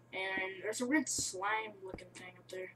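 hushed whisper while sneaking; whispering so nothing hears. Real, not acted. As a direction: keep it down, barely a breath. Sneaking past a weird thing.

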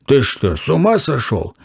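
plain reading voice

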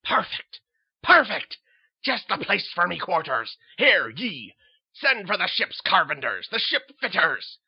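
loud exultant orders; captain delighted with his new quarters; gleeful captain. Acted. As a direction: crow with mad delight.

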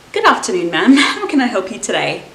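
flat, falling "good afternoon" after fumbling; tired barista finally getting the greeting right, flat; weary barista greeting. Acted. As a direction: greet with zero energy. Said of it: "Expectations versus reality".

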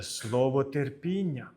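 слово терпіння stretched out very slowly; drawing attention. Acted. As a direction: linger on each word of слово терпіння. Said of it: "Він звертає увагу".

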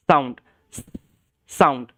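সাউন্ড with a long hissing s; hissing s demo. Shown as a demonstration. Teacher showing the hissing s sound for students. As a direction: hiss the s at the start of সাউন্ড. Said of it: "এর সাউন্ডটা হয়".

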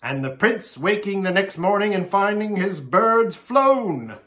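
high, loud delight; animated, delighted voice; gleeful. A narrator's reading. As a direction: relish the trick with glee. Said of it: "clapping his hands".

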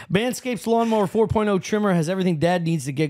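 even, scripted podcast sponsor read. Real, not acted. Host reading a Father's Day sponsor spot, ad read. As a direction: read the copy like a host's ad spot.

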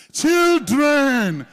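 put-on "Children" hit hard and loud; stressed loud Children. Shown as a demonstration. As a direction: throw all your weight on "Children". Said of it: "stress it and say".

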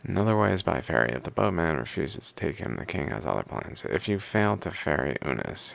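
steady recital with firm phrase openings; reading aloud. Acted. Reader reciting hymns to the Pharaoh and their commentary, reading aloud. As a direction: read it like verses from an old book.

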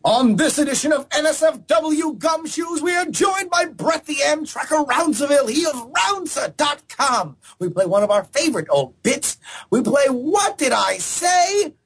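hammy noir detective announcer; gumshoe voice. Acted. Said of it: "do it in the gumshoe voice".

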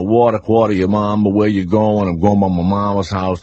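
running New Orleans street talk together; New Orleans accent. Shown as a demonstration. Guest showing how everybody in New Orleans sounds, local accent. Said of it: "we say stuff like".

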